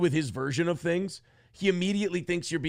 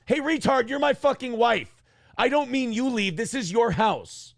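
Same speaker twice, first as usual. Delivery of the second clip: exasperated; 7 semitones higher than usual. Retold or imitated. Angry retort to wife.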